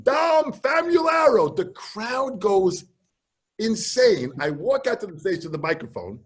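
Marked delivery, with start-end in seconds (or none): 0.0-1.5 mock Chinese gibberish building to an announced name. Host introducing the guest to the crowd, mock Chinese announcer. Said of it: "he's speaking in Chinese".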